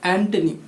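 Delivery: एंटोनिम as "AN-tuh-nim"; एंटोनिम, "tuh" replacing "toh"; correct pronunciation. Shown as a demonstration. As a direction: say एंटोनिम with a reduced middle vowel. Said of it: "टो नहीं".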